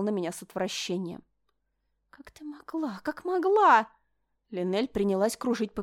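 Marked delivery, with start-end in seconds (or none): 2.1-3.9 hysterical outrage. Acted.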